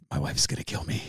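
very low, soft, voice dropping away; dismayed muttering. Retold or imitated. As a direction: mutter it low as a private dread. His dismayed thought, retold.

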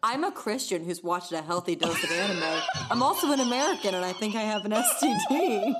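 mock self-introduction. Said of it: "You're like".

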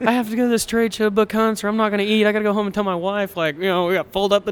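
high, whiny sob-story voice, hammed up; mock whining. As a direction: play the poor-me rancher for laughs. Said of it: "get on this podcast and be like".

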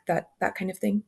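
ordinary talk, nothing marked

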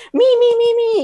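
high, loud calling out, imitating the parents. Parents in China calling the teacher over, imitated high and loud. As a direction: mimic Chinese parents eagerly summoning her.

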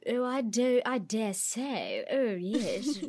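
mock upper-crust English, drawn out; posh British accent. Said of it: "The posh accents that are like".

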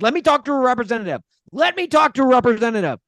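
high, fast, exasperated mock yell; retold screaming. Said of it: "through my screaming".

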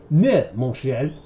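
hammed-up French accent, high and laughing; mock French accent. French crewman refusing the devil captain, in a hammed-up French accent. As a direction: play a cartoon Frenchman who fears the devil. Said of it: "Hans and Franz".

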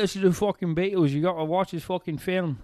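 obnoxious fan impression. Mocking someone who insists you must hear a certain band, loud high parody. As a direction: ham up the insistent know-it-all, fading out by the end. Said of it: "some fucking asshole you might not even like telling you".

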